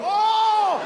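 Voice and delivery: squeaky high startled oh, hello; a fighter amazed his bomb worked, very high pitched; high surprised oh hello. Acted. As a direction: yelp way up high in delighted shock. Speaker imitates own reaction.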